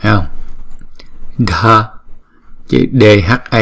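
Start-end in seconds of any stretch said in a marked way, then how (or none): 1.4-1.9 "Đờ" breathed out unvoiced; "Đờ" as a breathy release; aspirated whispered dh. Shown as a demonstration. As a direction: whisper the burst of "Đờ". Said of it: "chúng ta đọc âm bật là đờ".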